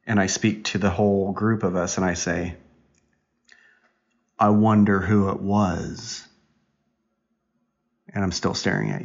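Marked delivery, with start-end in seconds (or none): 4.4-6.3 slow, pointed wondering, acted out; insinuating. Dad pretends to wonder who farted, slow and insinuating. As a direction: draw it out as a mock hint at the culprit. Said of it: "are you insinuating".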